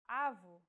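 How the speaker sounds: avô stressed on a closed final O; closed vowel demo. Shown as a demonstration. Teacher contrasts avô for learners, closed vowel. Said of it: "If said with a closed vowel".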